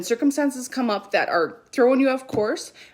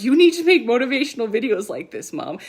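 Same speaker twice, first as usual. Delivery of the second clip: teasing daughter; 3 semitones higher, 5 dB louder than usual. Retold or imitated. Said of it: "daughter sitting on couch laughing".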